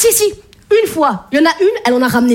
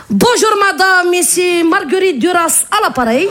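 telemarketer. Retold or imitated.

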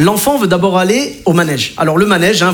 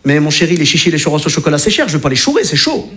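playful alliteration reply; 5 semitones lower than usual. Acted. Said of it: "dans le même style".

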